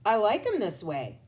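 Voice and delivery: put-on stubborn boy brushing it off; stubborn kid. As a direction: dig in your heels. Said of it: "said Zach".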